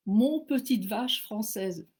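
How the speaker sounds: slow, fond mock of an English speaker's French; mock English accent. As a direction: drawl it like an anglophone trying French. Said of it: "Bob me répond aussitôt avec cette petite phrase". (accent anglais affectueux, lent, sur « mon petite vache française »)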